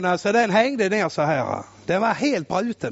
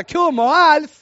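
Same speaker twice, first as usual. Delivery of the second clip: sister asking; 4 semitones higher, 5 dB louder, slower than usual. Retold or imitated. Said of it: "de sa så här".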